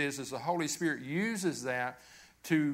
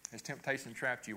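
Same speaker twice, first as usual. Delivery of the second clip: softer, stress on trapped; softer repeat; 2 semitones lower, 6 dB quieter than usual. Shown as a demonstration. Asking again, hushed and searching. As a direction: pastor quietly repeats the question to the congregation, softer.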